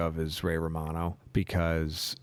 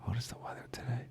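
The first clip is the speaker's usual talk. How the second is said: whispered; 4 semitones higher, 11 dB quieter, faster than usual. Shown as a demonstration. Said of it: "by Ray Romano?".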